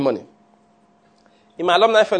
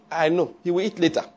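Mary dismissive; 6 dB quieter than usual. Acted. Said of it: "Mary sat down square".

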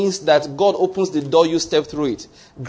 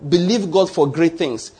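slow emphatic. Shown as a demonstration. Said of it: "Let me say it again".

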